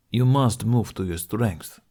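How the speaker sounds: slow, weighty insistence on every word; a mentor urging his student, slow and emphatic; stressed. A narrator's reading. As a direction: press the point home, slowly and firmly. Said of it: "Domokos stressed".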